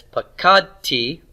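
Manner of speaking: "pakad T" slowly, KAD strong; unstressed ending. Shown as a demonstration. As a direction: stress KAD in "pakad T", leave tee light. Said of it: "syllable at the end that's not stressed".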